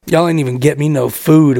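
put-on low drunk complaint; Rob. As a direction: imitate a friend just woken and grumbling. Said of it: "Rob's eyes pop up".

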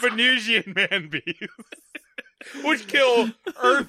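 very slow, grand trailer voice; old sci-fi announcer. Pretend. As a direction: drag it out like a B-movie trailer. Joins the mock narration.

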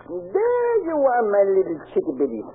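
slow, fond coo over the cash; tender talk to the money as to a pet. Acted. Cooing to money in the safe.

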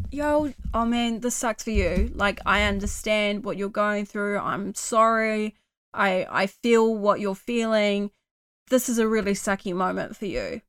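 soft, gentle comforting words to yourself; kind self-talk. Shown as a demonstration. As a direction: talk to yourself like a caring friend. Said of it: "be like".

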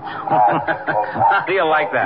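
chuckling through the words; laughing. Real, not acted. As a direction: laugh while you say it. Laughing at wife's remark.

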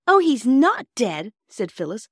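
high, loud, drawn-out exclamation; overwhelmed relief. A narrator's reading. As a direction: cry out with relief. Phyllis relieved, about to cry.

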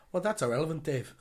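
put-on Gary Neville accent. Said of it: "that was a horrible Gary Neville, Neville accent".

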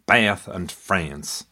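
Bath and France said very slowly with a flat short A as in hat. Shown as a demonstration. Explaining old English vowels, flat A in Bath and France. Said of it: "with the flat A as in hat".

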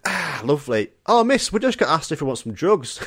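offhand remark. Retold or imitated. Schoolboys casually tell teacher about drug offer, offhand. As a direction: toss it out like a passing comment. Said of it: "like, an off comment".

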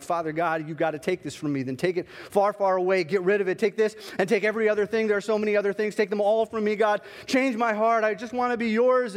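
rising to a loud desperate plea; pleading prayer building up. Retold or imitated.

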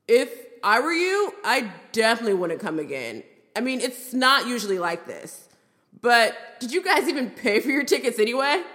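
lightly voiced frat bro; a hint of a bragging dude-bro. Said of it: "Him, in a frat bro voice".

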